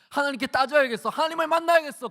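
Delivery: acted determination, high and loud; fierce resolve. Hannah deciding to confront God, acted fierce resolve. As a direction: burst out with defiant resolve.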